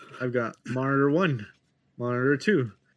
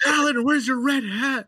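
retold call; 11 semitones higher than usual. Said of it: "I was like".

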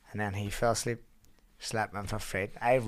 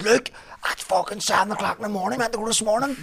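retold angry rant; 10 semitones higher, 4 dB louder than usual. Retold friend scolding.

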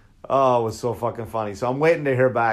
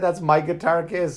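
indignant claim in a singer's voice; 6 semitones higher than usual. Retold or imitated. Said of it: "he fucking said".

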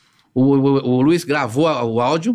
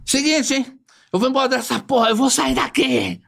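higher-pitched mock threat; Olga threatening; 6 semitones higher than usual. Olga threatening the director over the boy, higher pitch.

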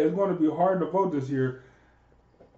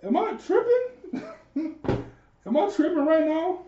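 laughing disbelief; 8 semitones higher than usual. Real, not acted. Laughing in disbelief at the co-host.

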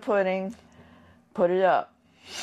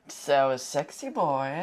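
slow imitated French accent, rising at the end; 3 semitones lower, slower than usual. Telling of the gentleman from France, imitated French accent. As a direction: draw it out in a mock French accent. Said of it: "total French accent".

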